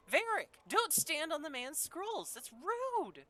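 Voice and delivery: hammed-up parent raising the voice; mock parental scolding.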